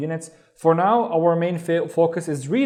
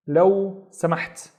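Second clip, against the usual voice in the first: word by word; 3 semitones higher than usual. Shown as a demonstration. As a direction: pause between لو and سمحت. Teacher modelling please.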